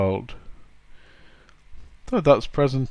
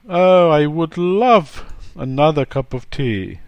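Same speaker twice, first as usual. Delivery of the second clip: a lightly voiced, sweet, higher and louder polite request; flowery polite request; 4 semitones higher, 6 dB louder than usual. Shown as a demonstration. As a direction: ask for the tea very politely. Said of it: "it's really just flowery language".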